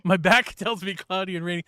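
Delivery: reading it out through laughter; laughing. Real, not acted. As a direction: chuckle while repeating it.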